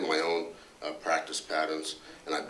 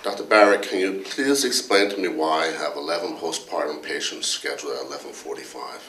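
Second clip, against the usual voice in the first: louder, a touch indignant complaining colleague; Dr. Anderson; 5 dB louder than usual. Retold or imitated. Colleague grilling the department head about hospital rules, mock indignant. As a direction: press the boss with mock exasperation, half-laughing. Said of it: "went something like this".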